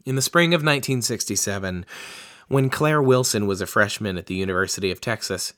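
brisk book narration; steady narrator read; reading aloud. Acted.

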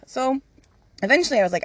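ordinary talk, nothing marked

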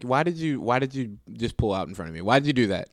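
mock whining at a bad driver; exasperated complaint. Driver griping at the car that pulled out, exasperated.

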